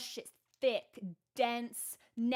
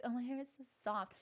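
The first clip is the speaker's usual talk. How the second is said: humble brag voice; 7 dB quieter, faster than usual. Retold or imitated. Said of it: "sounds like a humble brag".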